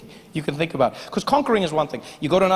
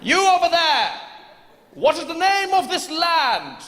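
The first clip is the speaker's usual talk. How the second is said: pompous fussy courtier; 10 semitones higher, slower than usual. Acted. British soldier addressing farmer.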